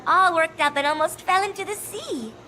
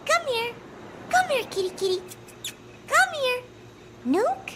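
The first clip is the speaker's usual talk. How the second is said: high, sing-song kitty call; coaxing a cat; 9 semitones higher than usual. Acted. High coaxing call to the cat Nook. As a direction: sweet-talk the cat closer.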